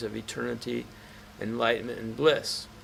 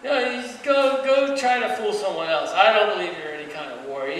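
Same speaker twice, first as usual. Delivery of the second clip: high, raised-voice taunting; hammed-up mocking jeers, pitched up; insulting; 8 semitones higher, 5 dB louder than usual. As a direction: heap scorn on him to provoke a fight. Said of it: "He just kept insulting him".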